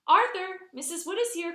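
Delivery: loud high call through the house. Acted. Mother calling Arthur that the visitor arrived, loud. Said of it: "called Mother".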